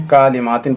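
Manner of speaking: कालिमातिन with a long first kaa; children's misreading. Shown as a demonstration. Teacher citing many children's mistake, कालिमातिन with long kaa. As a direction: stretch ka wrongly in कालिमातिन. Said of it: "बच्चे बहुत सारे ऐसे हैं".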